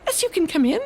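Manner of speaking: high little mouse voice; the mouse welcomes the fox into the mitten. Acted. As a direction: squeak a cheerful yes. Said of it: "said the mouse".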